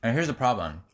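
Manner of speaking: talking with a mouthful of fries; words round a mouthful of food; mouth full. Real, not acted. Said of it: "Sorry, I have fries in my mouth".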